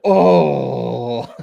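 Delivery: breathy, delighted "Oh"; awed gasp. Retold or imitated. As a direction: let the page take your breath. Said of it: "when I go".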